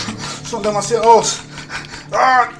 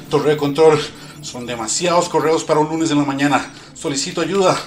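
pilot radio call; 3 semitones higher, 4 dB louder than usual. Acted. Pilot asks tower for help.

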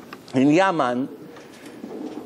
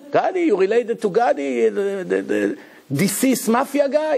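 shocked parent; 4 semitones higher than usual. Retold or imitated. Parent hears the mafia surname.

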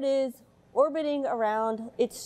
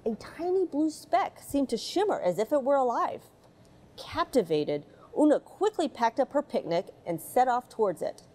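put-on gentle read-aloud storytelling for children; mild storybook narration voice. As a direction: read it like a bedtime picture book. Reads picture book aloud.

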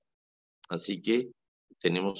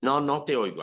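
higher, louder carrying call; teacher calling to silent students, raised and carrying; projecting, insistent; 7 semitones higher, 4 dB louder than usual. Retold or imitated. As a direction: repeat it higher, to the back of the room. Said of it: "estoy proyectando la voz".

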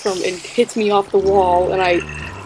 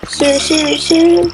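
slow, higher mock scolding of a friend; 5 semitones higher, much slower than usual. Real, not acted. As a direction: tease him, drawing each word out. Mocking friend's scream.

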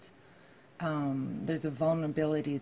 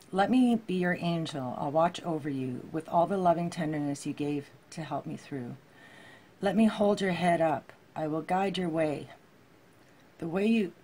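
choked up reading; 4 dB louder than usual. Real, not acted. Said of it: "I'm choking up again".

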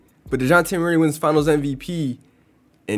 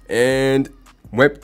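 talking through hiccups; hiccuping; 3 dB louder than usual. Real, not acted. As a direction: hiccups breaking up the words. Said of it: "Sorry, I'm hiccuping".

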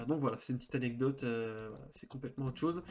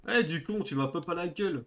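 mock yell; 3 semitones higher than usual. Real, not acted. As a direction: yell at the character playfully. Yelling at game character.

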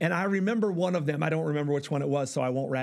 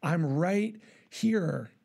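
slow reassurance; much slower than usual. Shown as a demonstration. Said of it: "he's like".

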